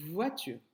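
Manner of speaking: "voiture" with a long buzzing v; drawn-out initial V. Shown as a demonstration. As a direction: hold the v before the rest of "voiture". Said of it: "Par quel son commence".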